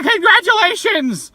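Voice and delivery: loud, drawn-out joking cheer; exaggerated congratulations. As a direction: overblown teasing congratulations. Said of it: "No, in all seriousness".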